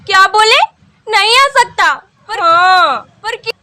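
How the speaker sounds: hammed-up heartbroken disbelief; mock shocked. Girlfriend shocked that boyfriend refuses to come.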